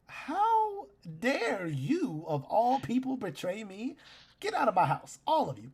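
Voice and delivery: high, loud, furious little voice; outraged gnome shout. Acted. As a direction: shriek at them to get out. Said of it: "Scanlan just looks at you like".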